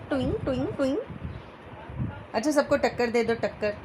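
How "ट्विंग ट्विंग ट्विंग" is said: quick playful twing noises for a wink; wink sound effect. Shown as a demonstration. Mother shows how Jeetu winks, playful twing sounds. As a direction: chirp twing twing like a cartoon wink. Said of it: "Jitu आँख कैसे मारता है".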